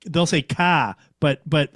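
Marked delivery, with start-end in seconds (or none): 0.4-0.9 car with a flattened Michigan vowel; Michigan accent. Retold or imitated. Showing the Michigan way, car in Michigan accent. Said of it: "like, you'll hear the R".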